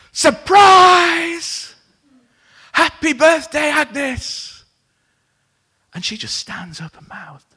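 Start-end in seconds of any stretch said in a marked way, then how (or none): 0.1-4.6 big high shout of surprise; surprise party shout. Retold or imitated. Crowd at the diner surprising Agnes, shouting high and loud. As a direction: yell it like a room full of people at a surprise party. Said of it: "And everybody shouts".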